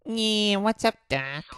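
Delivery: high, loud cartoon rabbit voice; Bugs Bunny. Shown as a demonstration. Showing viewers a rusty impression, Bugs Bunny voice. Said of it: "My Bugs Bunny voice sounds really".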